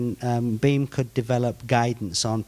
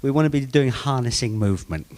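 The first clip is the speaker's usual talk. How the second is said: put-on bantering Australian accent; faster than usual. Presenter joking with the group about accents, in an Australian accent. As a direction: lay on the Aussie accent for laughs. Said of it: "do it in an Australian accent".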